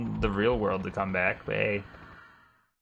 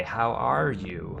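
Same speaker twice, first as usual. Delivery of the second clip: slow drawn-out "How are you?" in a dog voice; much slower than usual. Pretend. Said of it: "that's my dog voice".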